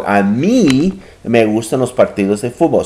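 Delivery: "mí" given the main push in "A mí me gustan"; "mí" lightly stressed against the other person. Shown as a demonstration. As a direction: contrast yourself by leaning on "mí". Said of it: "So I have emphasized that word".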